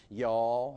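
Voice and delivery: y'all drawn out with a rising tune; y'all with a rising lilt. Shown as a demonstration. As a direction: give y'all a Southern rising finish. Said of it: "that's how you say it".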